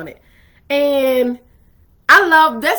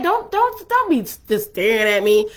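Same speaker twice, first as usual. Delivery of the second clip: mock pleading; 2 semitones lower than usual. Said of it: "She's like".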